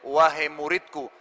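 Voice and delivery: slow, deliberate address; teacher's resolute call; firm and clear. Acted. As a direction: address your student with measured firmness. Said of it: "dengan tegas dan jelas".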